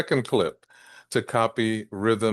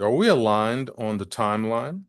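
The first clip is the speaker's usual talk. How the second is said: measured question with "timeline" set out clearly; emphasis on timeline. Shown as a demonstration. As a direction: finish the question clearly on "timeline", lifting at the end. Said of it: "just to emphasize timeline".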